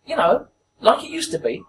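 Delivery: high-pitched old woman imitation; put-on elderly woman's question; old lady. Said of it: "an old lady, at least eighty years old".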